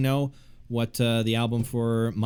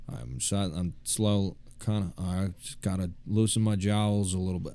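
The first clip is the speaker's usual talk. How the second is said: Mike from Breaking Bad. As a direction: drag it out like a weary fixer. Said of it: "I'm trying to get into Mike from Breaking Bad".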